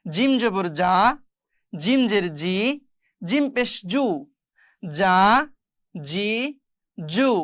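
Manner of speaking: জা, জি, জু with a hard, firm j; firm j sound. Shown as a demonstration. Teacher drilling students on jim, hard j in জা, জি, জু. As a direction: press the j firmly in জা, জি, জু. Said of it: "এটা আবার শক্ত করে পড়তে হবে".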